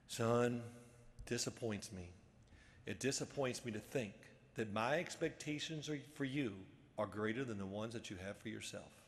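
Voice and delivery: low, measured coach's rebuke; disappointed coach. Retold or imitated. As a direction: deliver it low and soft, with pauses. Acted disappointed coach's reply.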